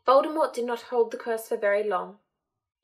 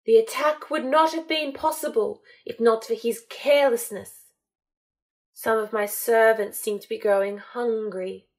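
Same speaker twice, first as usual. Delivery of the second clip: mild fury; 4 dB louder than usual. Acted. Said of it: "The fury in his tone was overt".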